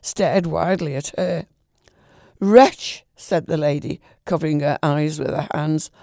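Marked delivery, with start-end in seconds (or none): 2.4-3.0 higher, louder outraged cry. A narrator's reading. Lady confronts the man in her room, louder outraged cry. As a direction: fling the word at him.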